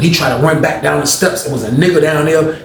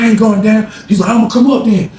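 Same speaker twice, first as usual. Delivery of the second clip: raised voices; 7 semitones higher, 3 dB louder than usual. Retold or imitated. Roommate and Rollo shouting exchange.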